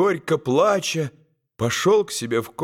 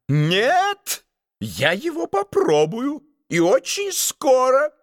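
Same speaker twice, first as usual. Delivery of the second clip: defiant shout; 11 semitones higher than usual. A narrator's reading. Duke vowing to taste the pie, high defiant shout. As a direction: shout it back at the prince. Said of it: "закричал герцог".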